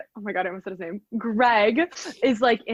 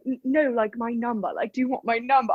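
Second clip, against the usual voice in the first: lightly imitated British accent; a touch of put-on British. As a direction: quote him in a mild British accent. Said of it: "okay, Mister British man".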